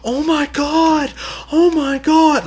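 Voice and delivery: imitating reaction channels faking terror; fake shock. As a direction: overact a phony scare. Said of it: "they're like".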